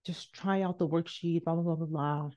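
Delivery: soft, quiet mock therapist; quoting the therapist. Repeating the therapist's words to herself, quiet and dismissive. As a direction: brush off her advice by mimicking it softly. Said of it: "this lady's words stayed with me".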